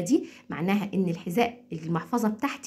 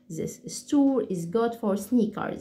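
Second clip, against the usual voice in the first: slow and clear; much slower than usual. Shown as a demonstration. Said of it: "بشكل هادي بحيث إن انتوا تسمعوا كل كلمة".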